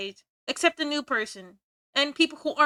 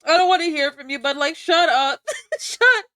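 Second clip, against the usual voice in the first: laughing mock shout of shut up; mock yell; 3 semitones higher, 5 dB louder than usual. Streamer telling chat to shut up, laughing mock shout. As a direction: yell it at chat while cracking up.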